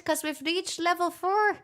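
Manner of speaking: a hint of put-on Irish; mock Irish accent; fake Irish accent. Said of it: "clearly an Irish accent".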